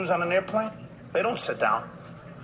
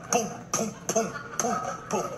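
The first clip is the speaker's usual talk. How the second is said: higher-pitched, softer run of booms; imitated booms; 5 semitones higher, 5 dB quieter than usual. Passengers rummaging through every compartment, imitated booms. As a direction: mimic bins going boom, boom.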